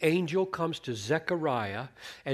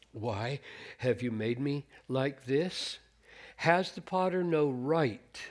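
scripture reading. Acted.

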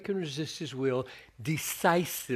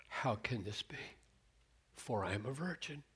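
hushed, softer, lower; wondering whisper; 3 semitones lower, 10 dB quieter than usual. Retold or imitated. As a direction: breathe it in awe. Mary voiced softly in wonder.

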